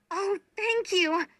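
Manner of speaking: high, slow, delighted thank-you; delighted exclamation. A narrator's reading. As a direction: let the thanks burst out in joy. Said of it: "she exclaimed".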